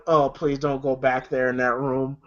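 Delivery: low, soft pleading; quiet dread. Retold or imitated. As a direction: beg softly under the breath. Dreading the room.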